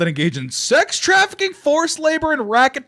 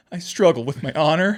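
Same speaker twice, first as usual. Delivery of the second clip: overacted anime dub; 4 semitones lower than usual. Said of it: "that's an anime line like a motherfucker".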